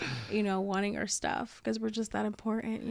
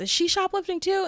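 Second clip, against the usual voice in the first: imitating a man; 9 semitones higher, 5 dB louder than usual. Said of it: "this man goes".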